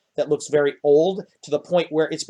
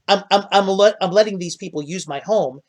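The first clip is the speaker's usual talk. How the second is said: higher, louder stammering gnome voice; flustered gnome; 5 semitones higher, 4 dB louder than usual. Acted. Gnome explaining he lends his home, higher flustered stammer. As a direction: trip over the words like a flustered little gnome.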